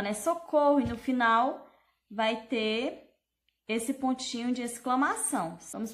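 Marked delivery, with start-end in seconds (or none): 0.1-0.8 "Socorro" pitched up as an exclamation; exclamation intonation. Shown as a demonstration. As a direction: call "Socorro" higher, with emphasis. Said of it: "Já vou ler dessa forma".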